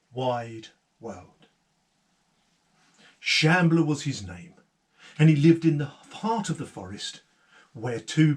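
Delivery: put-on lively storyteller voice for children; story narration. A narrator's reading. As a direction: tell it like a fireside tale.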